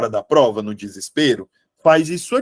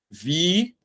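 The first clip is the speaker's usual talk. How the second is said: "Vitória" broken into syllables with long pauses; 4 dB quieter than usual. Shown as a demonstration. Teacher splitting an example word for students, syllable by syllable.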